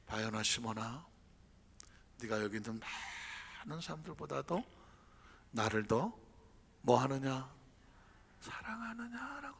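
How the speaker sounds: low, soft, gentle Jesus; tender question. Acted. Jesus gently asking Peter about his love, tender. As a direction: ask him lovingly, low.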